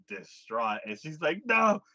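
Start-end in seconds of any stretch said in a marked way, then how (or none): 1.5-1.8 high, loud no; hammed-up high no; mock pleading no. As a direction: cry out a high no. Woman's denial voiced.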